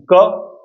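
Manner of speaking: "क" said with little air; isolated "क", no aspiration. Shown as a demonstration. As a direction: say "क" as an unaspirated k with hardly any puff. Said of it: "इन्हें बोलते समय कम हवा निकल रही है".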